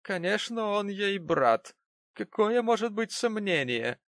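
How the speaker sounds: high, slow scornful gentleman; sneering gentleman. Acted. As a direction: sneer at the family.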